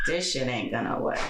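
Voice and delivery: low, soft, slow deadpan imitation; drawn-out unbothered friend; Fatima's slow voice. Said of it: "Fatima would be like".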